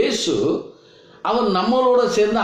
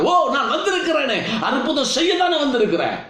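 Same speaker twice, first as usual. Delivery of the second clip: higher-pitched, pleading exclamation; dismayed protest; 4 semitones higher than usual. Acted. Jesus voiced as troubled among weeping mourners, dismayed protest. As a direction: cry out in troubled disbelief.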